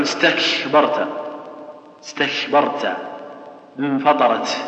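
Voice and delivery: استكبرت and انفطرت with loose, leaky K and T; no firm closure in استكبرت or انفطرت, just breath; weakened kaf and ta. Shown as a demonstration. Teacher mimicking those who make letters too weak, weakened consonants. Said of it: "وبعض الناس يخليها مرة ضعيفة".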